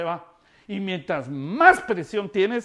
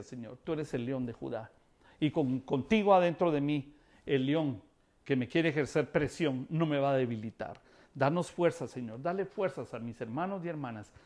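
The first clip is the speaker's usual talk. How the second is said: prayer; 2 semitones lower than usual. Acted. Pastor prays for listeners.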